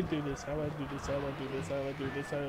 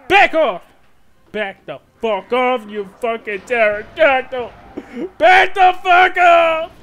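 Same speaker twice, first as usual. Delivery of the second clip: swearing tirade; 5 dB louder than usual. Real, not acted. Swearing at pterodactyl.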